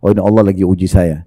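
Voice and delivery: gentle, accepting sigh of resignation; calm acceptance. Shown as a demonstration. Preacher showing the accepting response to a trial, calm and gentle. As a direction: say it with an open, easy heart. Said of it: "dengan lapang dada bisa menerimanya".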